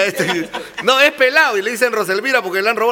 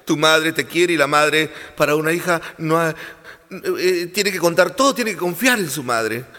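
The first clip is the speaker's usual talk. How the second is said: deeper scolding mother; mother's voice; 6 semitones lower, 4 dB quieter than usual. Acted. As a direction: lecture her like a stern mom. Comedian voices the mother, low. (voz de madre grave y regañona)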